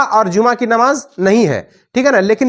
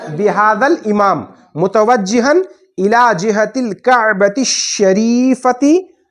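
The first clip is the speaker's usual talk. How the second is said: slow, drawn-out recitation; slow teaching recitation; recited phrase; slower than usual. Shown as a demonstration. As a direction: stretch each word out for learners. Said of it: "क्या लगाना है?".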